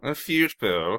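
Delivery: "fute ball" with a yoo vowel; mock English pronunciation. Shown as a demonstration. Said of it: "we call them fute balls".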